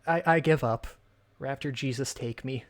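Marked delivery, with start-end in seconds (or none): 1.4-2.6 dying whisper. Acted. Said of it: "This is my death scene".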